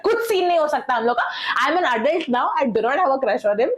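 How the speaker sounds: indignant denial. Retold or imitated. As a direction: deny the crush with mock indignation. She protests to teasing friends.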